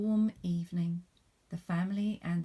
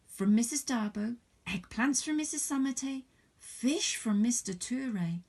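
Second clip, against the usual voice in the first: higher, louder eager listing; excited; 5 semitones higher, 5 dB louder than usual. Acted. Fatu tells her mother about all the gifts, excited. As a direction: pour out everything at once.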